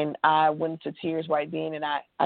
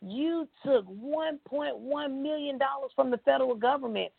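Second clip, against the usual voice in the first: stern judge; 8 semitones higher than usual. Retold or imitated. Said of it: "He was like".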